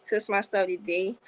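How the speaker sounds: ordinary talk, nothing marked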